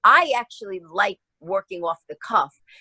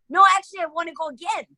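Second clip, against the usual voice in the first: eager plea; 8 semitones higher, faster than usual. Retold or imitated. Eagerly begging for another take.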